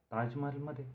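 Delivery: high astonished echo question; wide-eyed surprise. A narrator's reading. Arvind hearing of the Taj party, wide-eyed surprise. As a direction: lift the pitch sharply in disbelief. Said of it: "डोळे विस्फारित अरविंदने विचारलं".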